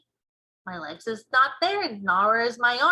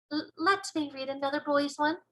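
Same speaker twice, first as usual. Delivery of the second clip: put-on young girl; 6 semitones higher than usual. Girl begs to read another dream, high and eager. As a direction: plead lightly as a young girl. Girl asks giant again.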